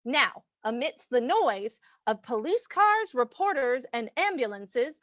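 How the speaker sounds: put-on old-time radio drama announcer; radio announcer narration. A narrator's reading. Announcer setting the riverfront scene, dramatic narration. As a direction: set the scene with measured, swooping emphasis.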